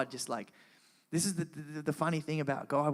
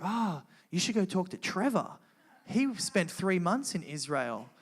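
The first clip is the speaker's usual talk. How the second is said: high, louder burst of realization; eager retold suggestion; 6 semitones higher, 4 dB louder than usual. Girl at church pointing him to Trevor, excited. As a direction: act out a friend's excited tip.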